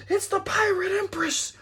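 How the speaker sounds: high, loud cry of alarm; acted lookout shout. Lookout warning of the Pirate Empress, acted shout. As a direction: yell the sighting down from the mast.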